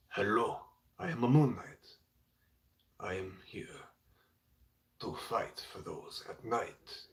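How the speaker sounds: a light put-on Asian accent, half whispered at the end; mild Asian accent for Moon Knight, trailing to a hush. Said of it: "an Asian accent".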